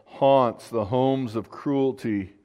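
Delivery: slow, measured Bible reading; deliberate prayerful reading; scripture reading aloud. Acted. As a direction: read the psalm out slowly, with weight.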